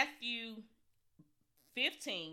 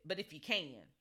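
doubtful; 5 semitones lower, 4 dB quieter than usual. Retold or imitated. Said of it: "I'm not sure you, you will do it".

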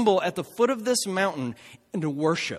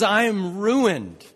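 anguished cry; 3 semitones higher, 5 dB louder, slower than usual. Retold or imitated. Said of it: "He says".

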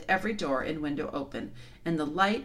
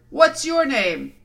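loud, slow lion bellow; bawling; 7 semitones higher, 9 dB louder, slower than usual. Acted. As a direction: call up to the giant. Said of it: "he bawled out up at the giant".

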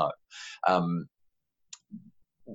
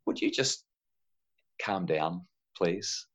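polite; 2 semitones lower, 6 dB quieter, slower than usual. Shown as a demonstration. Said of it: "parents don't say it politely".

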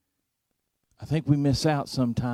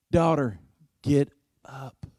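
gentle command. Retold or imitated. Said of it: "he speaks to the girl".

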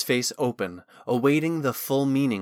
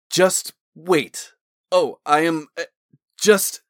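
broken, higher, louder false starts; flustered stammer; 5 semitones higher, 4 dB louder, slower than usual. A narrator's reading. Talon struggling out of his garments, flustered and halting. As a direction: struggle to get a word in, halting. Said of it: "Talon couldn't get a word out".

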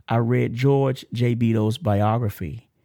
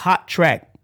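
higher, louder announcer-like punch; hype call; 7 semitones higher, 5 dB louder than usual. Pretend. Host capping the testimony's introduction, hype call. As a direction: echo the hype, a little more contained.

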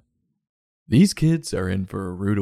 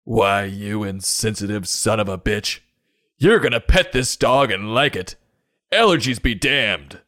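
mock furious rant. Acted quarrel climax.

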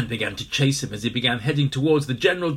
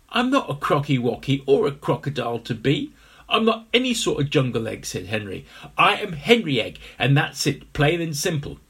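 indignant egg voice; 5 dB louder than usual. Acted. Henry protests.

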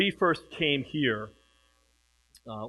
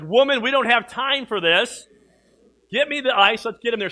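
louder, mock-impatient order; urgent retold command; 5 semitones higher, 7 dB louder than usual. Father recalling telling his wife to hurry, mock urgent. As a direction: hurry her along, half-joking.

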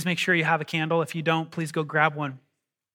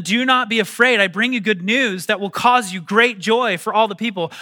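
scripture reading; 2 semitones higher, 3 dB louder than usual. Acted. Preacher reading scripture aloud.

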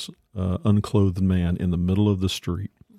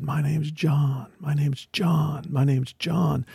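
higher, slow imitation of sobbing; tearful repetition; 6 semitones higher, slower than usual. Homeless man to the missionary who named him, mock-tearful repetition. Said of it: "he began to sob and cry".

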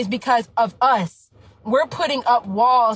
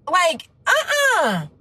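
choked-up refusal; 6 semitones higher, much slower than usual. Real, not acted. Emotional outburst.

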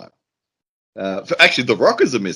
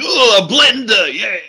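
hammed-up, higher voice of a let-down groom; mock Savage; 8 semitones higher, 3 dB louder than usual. Groom opening a wedding present, hammed-up higher mock disappointment. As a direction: ham up a disappointed gift reaction, pitched up.

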